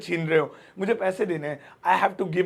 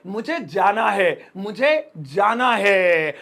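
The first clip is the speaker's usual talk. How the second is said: reluctant compulsion; much slower than usual. Shown as a demonstration. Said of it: "वो है मजबूरी".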